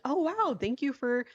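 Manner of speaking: high-pitched, gushing fake thanks; mock gratitude. Killer thanking husband for his insurance policies, mock gratitude. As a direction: act out an over-delighted thank-you.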